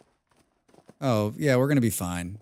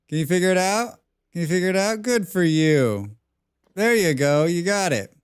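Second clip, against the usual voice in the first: higher, encouraging pet talk; coaxing pet; 5 semitones higher, 4 dB louder than usual. Real, not acted. Player coaxing the pet through the door, encouraging. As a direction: praise the animal like a puppy.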